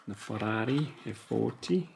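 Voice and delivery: light mock Italian accent. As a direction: slip playfully into an Italian accent for the car's name. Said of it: "Not sure why I did the Italian accent there".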